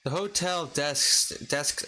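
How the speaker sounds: halting, attempted Irish accent. Shown as a demonstration. Reader stumbling over a hotel review in an Irish accent. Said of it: "stuttering more as an, as an Irish".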